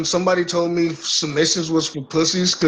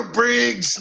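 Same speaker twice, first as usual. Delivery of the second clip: wrestling promo; 6 semitones higher, much slower than usual. Pretend. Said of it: "I gotta cut a promo on Briggs".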